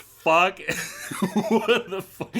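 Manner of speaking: high, cracking up in bafflement; laughing disbelief. Real, not acted. Co-host reacting to a made-up theory, laughing incredulity.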